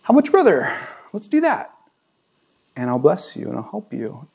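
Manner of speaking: lightly voiced God offering a new plan; God making space. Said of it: "He's like".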